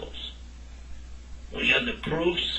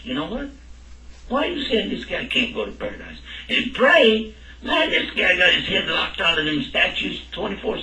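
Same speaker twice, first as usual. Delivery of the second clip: a higher, protesting doubter pleading for the nice Hindu neighbour; skeptical objector; 3 semitones higher than usual. Pretend. Teacher voicing a doubter to his class, higher incredulous protest. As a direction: push back like an incredulous student.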